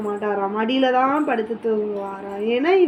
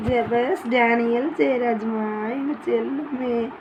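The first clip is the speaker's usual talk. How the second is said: tender lulling; slower than usual. Real, not acted. Mother lulls son to sleep.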